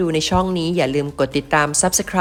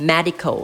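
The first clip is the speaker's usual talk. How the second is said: "medical" stressed on MED; first-syllable stress; much slower than usual. Shown as a demonstration. Teacher models for students, stress on the MED of "medical". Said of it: "เน้นพยางค์แรกนะครับ".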